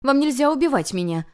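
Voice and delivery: put-on girl spits out a forbidden order; hissed through teeth. A narrator's reading. Hissing demand. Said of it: "снова процедила она".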